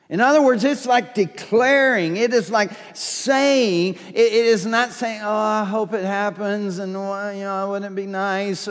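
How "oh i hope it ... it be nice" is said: mealy-mouthed. Retold or imitated. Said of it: "mealy-mouthed kind of language".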